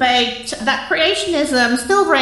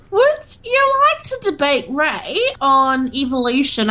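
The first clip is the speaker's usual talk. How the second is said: laughing; 2 semitones lower than usual. Acted. Giggling through a prank call.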